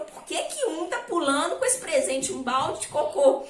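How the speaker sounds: a hint of an amazed dad, laughing; lightly voiced puzzled father; baffled father. Father baffled by dung present.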